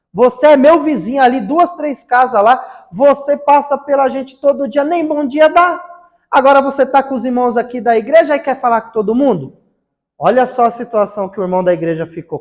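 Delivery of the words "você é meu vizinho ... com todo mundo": indignant protest. Retold or imitated. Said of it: "o rapaz se manifestou".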